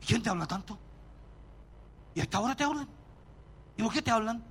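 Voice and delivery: lightly voiced suspicious wife; mock the wife's nagging questions; a hint of a jealous wife interrogating her husband. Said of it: "la esposa dice".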